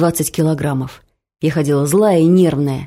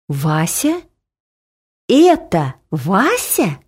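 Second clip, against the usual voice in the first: stunned disbelief; much slower than usual. A narrator's reading. Husband stunned, repeats question.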